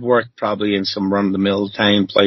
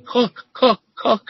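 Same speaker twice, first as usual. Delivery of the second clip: mock yell; 12 semitones higher, slower than usual. Cajun chef yells at the new cook, mock yell. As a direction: bark the order as the chef did. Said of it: "and he's yelling at me".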